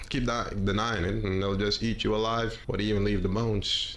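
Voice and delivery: put-on Western accent. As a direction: let the accent slide into a Western one. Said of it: "now I'm just going too Western".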